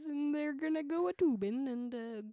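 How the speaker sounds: put-on light Minnesotan accent, dragging out pontoons. Continuing the Minnesotan accent bit for her sister. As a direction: keep the Minnesota lilt going.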